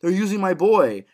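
high-pitched dramatic shout; Tommy's outburst. Acted. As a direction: act out a desperate shouted plea. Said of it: "when Tommy says".

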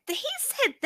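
high, shocked question; retold disbelief. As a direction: play it stunned and incredulous. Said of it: "But I said".

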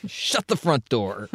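slow, deliberate "Shut the front door"; dramatic reading. Shown as a demonstration. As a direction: savour each word like a punchline. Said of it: "his best dramatic recitation".

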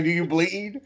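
laughing through a mock menacing question; teasing giggle breaking into the words; laughing mock quote. Teasing a friend about the brother meme, laughing.

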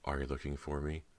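a light coaxing tease from the dark; soft and playful. Acted. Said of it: "soft and playful".

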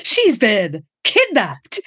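slow, hammed-up announcement; mock-dramatic exclamation. Host announcing poor Lila's fate, mock-dramatic exclamation. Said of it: "Exclamation mark".

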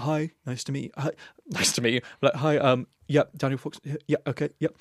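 lightly put-on butch office greeting; mild businesslike bloke act; straight phone voice. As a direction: answer as if faintly faking a straight man. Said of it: "answer the phone like this".

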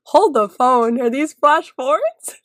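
slow, drawn-out double take; retold dawning realization. Viewer recounting the moment it clicked, stunned disbelief. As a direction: realize it mid-sentence, stretching it into a question.

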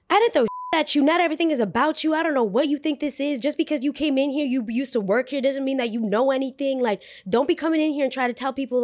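high, fast, indignant mimicry; mocking coworker's rant. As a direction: imitate the snippy coworker. Imitating Allie's angry rant.

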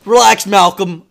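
loud, forceful brush-off; irate dad. Retold or imitated. Dad telling teacher he is taking care of it, irate. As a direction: take over and berate loudly.

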